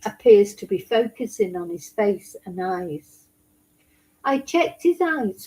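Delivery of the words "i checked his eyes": lightly raised, whiny mock of the defendant; a hint of a sulky overgrown child; whiny man-baby voice. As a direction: mimic him as a pathetic man-baby. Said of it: "I have to talk like that 'cause that's how he talks".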